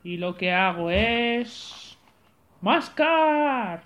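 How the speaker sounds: slow, laughing monster boast; gleeful monster with a chuckle; friendly monster. Acted. (monstruo simpático)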